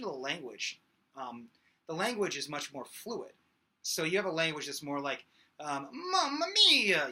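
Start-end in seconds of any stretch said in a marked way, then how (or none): 6.1-7.1 high, loud Italian mamma mia; head voice. Shown as a demonstration. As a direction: sing it up in head voice. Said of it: "right there I went to the head voice".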